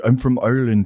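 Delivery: put-on Irish accent. Co-host showing off favourite accent, Irish accent. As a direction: claim it in an Irish lilt. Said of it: "I love doing the Irish accent".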